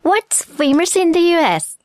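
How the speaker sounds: slow English model phrase; drawn-out, clearly spaced demonstration; listening practice model. Shown as a demonstration. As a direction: say it slowly for learners to catch. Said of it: "Are you ready for some listening practice?".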